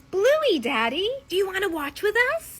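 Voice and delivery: put-on high, loud excited little kid; sweet five-year-old. Five-year-old invites Daddy to watch Bluey, sweet excited kid voice. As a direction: pipe up like an eager small child. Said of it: "My sweet little five-year-old goes".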